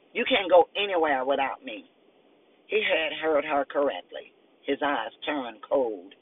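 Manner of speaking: steady reading of a crime novel; story narration. A narrator's reading. Author reading her novel excerpt to listeners, measured narration. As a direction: read it like an audiobook, even and clear.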